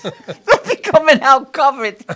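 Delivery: slow, high and loud, a spooky warning; ominous punchline. Retold or imitated. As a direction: draw it out like a grim joke. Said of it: "He goes".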